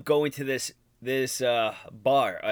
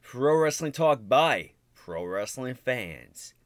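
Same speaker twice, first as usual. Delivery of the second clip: slow announcer intro; much slower than usual. Acted. Show opening announcer.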